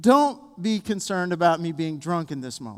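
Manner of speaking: plain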